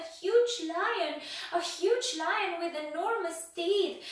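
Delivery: high, loud, slow hammed-up terror; escalating panic. A narrator's reading. Mister Jelly imagines a huge lion, high slow panic. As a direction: pile on the panic, wailing each phrase.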